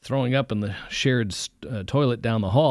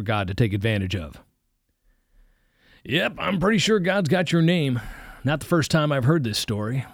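pronouncing preacher; 3 semitones higher than usual. Acted. Preacher pronouncing on the boy's background, mildly preachy. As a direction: declare it like a sermon. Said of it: "Marnie pronounced".

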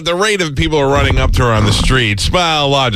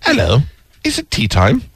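put-on English lady accent. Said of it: "English muffin".

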